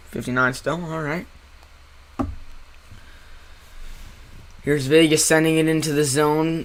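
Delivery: live hockey call, brisk; play-by-play commentary. Acted. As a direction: call the game like a broadcaster.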